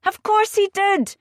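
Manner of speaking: high, sharp indignant cry; indignant outburst. A narrator's reading. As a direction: throw it back at him in outrage. Maggie insists Nick hurt her.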